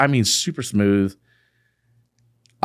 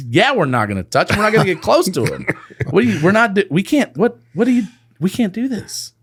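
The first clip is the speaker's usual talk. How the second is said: laughing; 11 semitones higher than usual. Retold or imitated. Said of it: "he's laughing".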